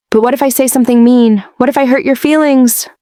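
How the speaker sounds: lightly voiced girl, fretting; worried child. Daughter fearing she'll hurt her mother, worried.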